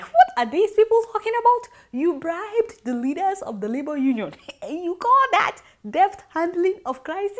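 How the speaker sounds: high, mocking outrage with a laugh; scoffing disbelief. Mocking the labour ministry's claim, scornfully incredulous. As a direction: ridicule the claim. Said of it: "I was like".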